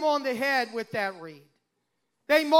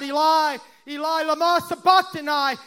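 mildly raised retold cry; 2 semitones higher, 3 dB louder than usual. Preacher retelling Jesus' cry on the cross, mild crying out. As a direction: cry it out with restrained force. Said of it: "he cried out".

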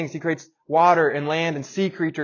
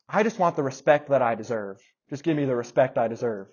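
cool and calm; 3 dB louder than usual. Retold or imitated. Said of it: "in a pretty cool way".

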